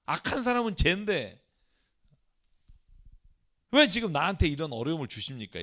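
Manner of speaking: retold Job questioning God; challenging complaint. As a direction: lightly act out an aggrieved challenge. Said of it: "이렇게 따지는 거죠". (억울한 듯 따져 묻기)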